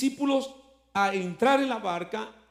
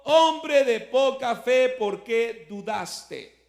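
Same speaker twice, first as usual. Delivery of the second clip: slow rebuke; 2 semitones higher, 5 dB louder, much slower than usual. Acted. Jesus rebuking Peter.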